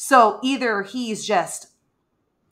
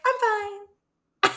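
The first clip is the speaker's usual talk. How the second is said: curt Elaine; 14 semitones higher than usual. Retold or imitated. Elaine answers Lucien's concern.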